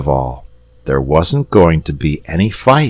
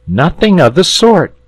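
put-on high, eager boy; quick correction from a lad; much higher boy; 13 semitones higher, 5 dB louder than usual. Boy voiced in story.

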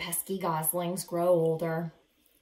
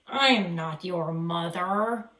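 slow, louder stern correction; 5 dB louder, slower than usual. Acted. Bruce telling goslings he is not their mother, stern. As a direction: set them straight, gruff and firm. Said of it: "Bruce was very stern".

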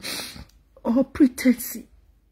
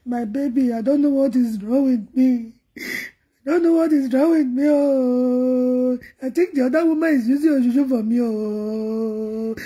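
retold lover's complaint, half-wailed; mock pleading. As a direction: plead like a wronged lover, stretching the last sound. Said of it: "He go say".

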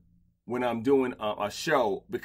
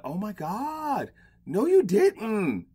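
mock offended gasp; 8 semitones higher, much slower than usual.

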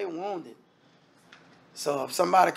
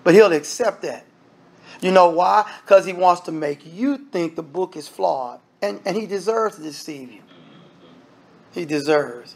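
ordinary talk, nothing marked

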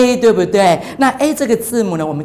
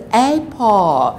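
slow model word. Shown as a demonstration.

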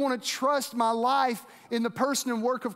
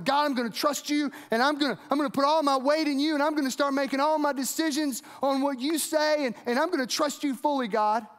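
imagined listener fired up, vowing to trust God, higher; pitched up, eager promise to God; 3 semitones higher than usual. Retold or imitated. Pastor voicing a fired-up believer's vow, raised and eager. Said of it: "and I was fired up".

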